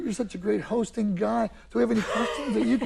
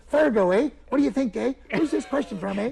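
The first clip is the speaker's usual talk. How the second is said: hammed-up Fargo-style South Dakota accent; playful upper-Midwest Fargo accent; 3 semitones higher than usual. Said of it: "Come on, South Dakota".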